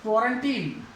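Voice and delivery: put-on क्वारंटीन as KWO-run-teen; o sound first, long ee last in क्वारंटीन; correct pronunciation. Shown as a demonstration. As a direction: say क्वारंटीन ending in 'teen'. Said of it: "लेकिन सही आप सिम".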